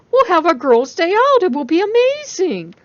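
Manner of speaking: overjoyed at the request; thrilled friend. A narrator's reading. Jessica thrilled.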